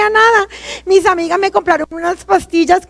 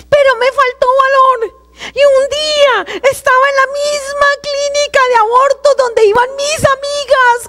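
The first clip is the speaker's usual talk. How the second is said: real tears in a higher voice; crying; 5 semitones higher than usual. Real, not acted. Telling the congregation about her abortion, tearful. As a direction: speak through rising sobs.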